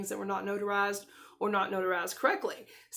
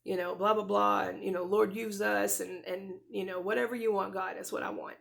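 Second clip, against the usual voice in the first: generic rote prayer. Retold or imitated. Wife giving God the generic family prayer, by rote. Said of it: "I gave the whole generic".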